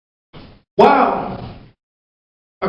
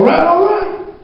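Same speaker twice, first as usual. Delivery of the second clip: drawn-out dad; 13 semitones higher, much slower than usual. Retold or imitated. Dad gives in to mom.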